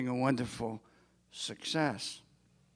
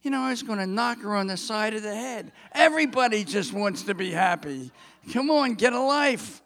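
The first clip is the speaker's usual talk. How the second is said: exasperated; 5 semitones higher, 4 dB louder, faster than usual. Real, not acted. Exasperated at the whining bride.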